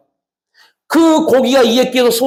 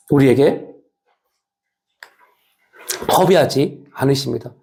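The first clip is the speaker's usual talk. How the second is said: measured, lower-pitched reading from a prepared text; low, deliberate pulpit reading; formal sermon reading; 7 semitones lower than usual. Real, not acted. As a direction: read it out solemnly, phrase by phrase.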